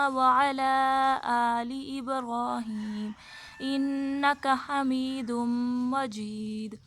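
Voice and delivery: slow, devout, measured chant; prayer recitation. Real, not acted. Teacher leading her viewers in durood, slow and devout. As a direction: recite the durood with reverent calm.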